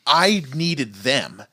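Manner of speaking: slow, deliberate imitation of disgust; retold self-disgusted admission, drawn out. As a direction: quote him with understated disgust, dragging it out. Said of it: "he says it with disgust".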